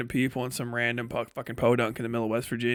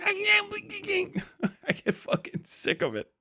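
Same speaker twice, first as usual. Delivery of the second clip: softer, slow, laughing through the words; laughing while talking; 5 dB quieter, much slower than usual. Real, not acted. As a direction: laugh it out in exasperation.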